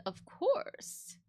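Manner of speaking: sweet of course. Retold or imitated. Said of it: "and I said".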